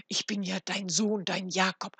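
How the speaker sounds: loud, indignant mimicry at her own pitch; scornful quoting. Frau Hanne repeats his claim to neighbours, scornful. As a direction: throw his words back with contempt. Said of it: "wagt er zu spotten, spricht er zu mir".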